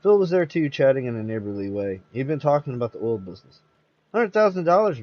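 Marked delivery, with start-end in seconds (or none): 4.1-5.0 disbelieving. A narrator's reading. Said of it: "said Jess, disbelieving".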